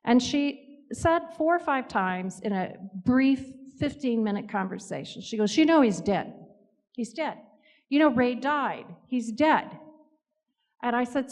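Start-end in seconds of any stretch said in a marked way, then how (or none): 5.6-9.8 raised-pitch, blunt insistence; insistent. Retold or imitated. Grieving widow insisting to the medium, insistent and emphatic. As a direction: press the point home again and again.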